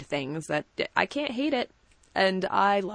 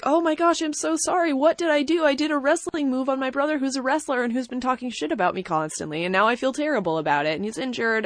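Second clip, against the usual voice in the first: mock apologetic brother; 5 semitones higher than usual. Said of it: "is like".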